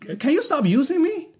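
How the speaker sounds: exasperated plea. Retold or imitated. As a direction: beg them to stop, fed up. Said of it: "I'm like".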